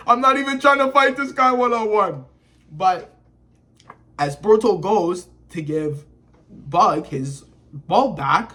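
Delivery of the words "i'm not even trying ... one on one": mock pissed-off. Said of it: "Code was pissed".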